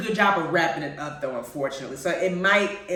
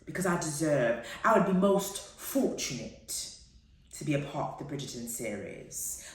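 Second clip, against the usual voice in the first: put-on British accent; 5 semitones lower, 7 dB quieter than usual. Vlogger dreaming of a Bridgerton role, playful British accent. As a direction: play at a refined British accent, unhurried and softer. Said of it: "me speaking with a British accent".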